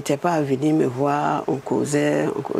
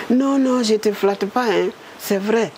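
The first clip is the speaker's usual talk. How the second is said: higher, earnest reassurance; insisting Prime Minister; 5 semitones higher than usual. Retold or imitated. Woman voicing the Prime Minister insisting he isn't flattering her. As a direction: lightly play him insisting.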